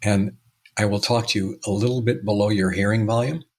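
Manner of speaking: a hint of a man making you lean in to hear him; imitating Robert. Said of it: "Robert would do this".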